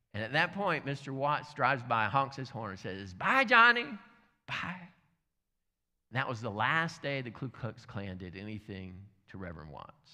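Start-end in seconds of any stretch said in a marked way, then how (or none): 3.1-4.9 mock-sweet neighborly send-off; cheerful farewell. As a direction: call out a chirpy goodbye in passing. Acted cheery farewell from passing car.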